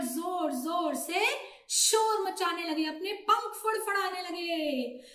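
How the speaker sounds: lively storyteller in mid-crisis; dramatic story narration. A narrator's reading. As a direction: build the commotion for young listeners.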